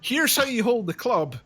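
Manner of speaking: hint of a bad teacher, amused; imitating dad teaching. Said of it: "he was such a bad teacher".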